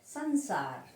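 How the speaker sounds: संसार with a humming nasal first syllable; nasal pronunciation. Shown as a demonstration. Teacher showing the nose sound, संसार with a nasal first syllable. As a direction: say संसार as "san-saar", through the nose. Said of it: "नाक से बोला जा रहा है".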